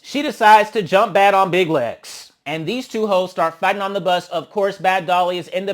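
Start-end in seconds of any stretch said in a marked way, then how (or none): 0.0-2.3 louder, higher, slow narration of the fight; excited build-up. Real, not acted. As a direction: hype the fight up.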